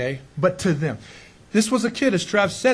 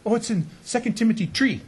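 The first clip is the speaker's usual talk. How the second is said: put-on Belizean accent; 3 semitones higher than usual. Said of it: "Belizeans can't pronounce the th sound".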